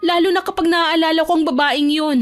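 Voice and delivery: high-pitched, indignant younger sister; galit na nakababatang kapatid. Acted. (mataas at nanggagalaiting boses ng bunso)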